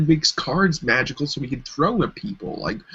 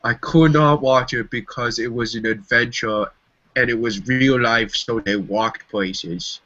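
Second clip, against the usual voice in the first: mock quote; 5 semitones lower than usual. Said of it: "your logic is".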